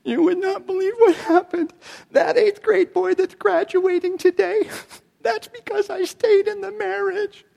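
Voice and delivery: high, squeaky tearful wail; mock crying. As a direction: imitate a woman sobbing through her words. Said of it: "she just starts crying".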